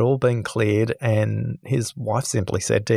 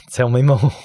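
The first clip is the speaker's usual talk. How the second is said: calm tell me more; 2 semitones higher, 4 dB louder than usual. Retold or imitated. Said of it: "took a deep breath and said".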